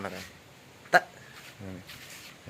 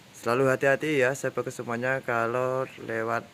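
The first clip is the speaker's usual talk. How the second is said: shouting over wind; 4 semitones higher, 5 dB louder than usual. Real, not acted. Outdoors in strong wind.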